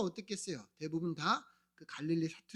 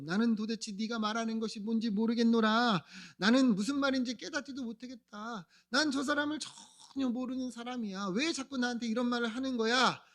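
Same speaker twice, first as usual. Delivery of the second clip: slightly raised, insistent protest; indignant denial; 2 semitones higher than usual. Acted. Peter to those accusing him of knowing Jesus, indignant denial. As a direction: deny it emphatically in a lightly acted voice.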